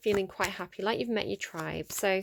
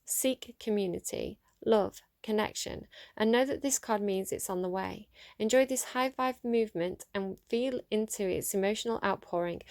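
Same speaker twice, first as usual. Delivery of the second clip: card reading voice. Acted. Reader sharing an oracle card with her viewers, gently read.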